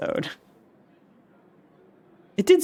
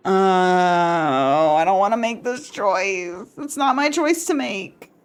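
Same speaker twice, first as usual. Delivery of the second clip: anxious character voice; slower than usual. Acted. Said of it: "player voicing character's dilemma".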